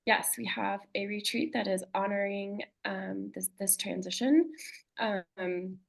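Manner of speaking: slightly hoarse, voice giving out; losing her voice. Real, not acted. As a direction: talk through a tired, fading voice. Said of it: "I'm losing my voice a little bit".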